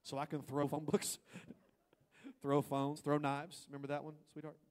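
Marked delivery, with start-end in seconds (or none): 0.0-3.7 louder, laughing self-justification; mock self-justifying. Husband excusing throwing things, mock loud. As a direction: justify the rage with a grin. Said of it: "it's like".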